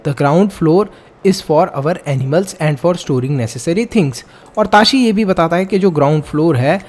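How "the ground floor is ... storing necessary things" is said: slow, deliberate textbook reading; measured classroom read-aloud; reading aloud slowly. Acted. Reads textbook passage aloud.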